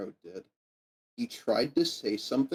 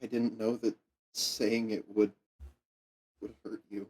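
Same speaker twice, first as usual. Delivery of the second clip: sad; 3 dB quieter than usual. Acted. Kid apologises softly.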